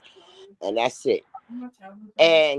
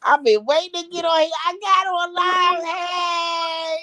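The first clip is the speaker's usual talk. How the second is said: high, giddy and thrilled; bursting with excitement to finally speak; excited squeal; 12 semitones higher than usual. Real, not acted. Caller thrilled to be on live, high excited squeal.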